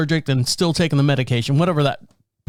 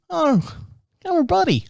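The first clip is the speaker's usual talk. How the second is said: higher, tickled self-mockery; mock flattered; 13 semitones higher than usual. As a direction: sound pleased like a puppy. Mock delight at being called buddy.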